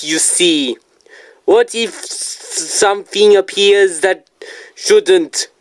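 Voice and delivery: put-on terrible Japanese accent. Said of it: "that was a terrible accent".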